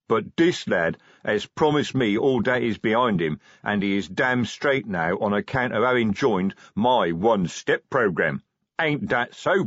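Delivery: lightly voiced gruff troll sergeant; a hint of a bossy troll sergeant; troll sergeant lecturing the young troll, lightly voiced; troll sergeant Detritus.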